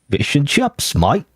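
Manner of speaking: badly faked Australian accent; attempted Australian accent. Gamer who can't do Australian trying anyway, shaky fake Australian accent. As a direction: have a clumsy go at Australian, rising on "chips". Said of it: "I can't do Australian accent".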